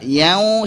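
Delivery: "Yau" sent through the nose; wrongly nasalised. Shown as a demonstration. Teacher warning students, "Yau" said nasally. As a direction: let "Yau" leak into the nose. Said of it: "jangan masuk hidung juga".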